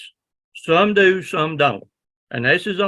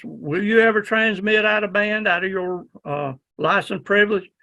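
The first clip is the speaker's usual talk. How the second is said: quiz question; 5 semitones higher than usual. Retold or imitated.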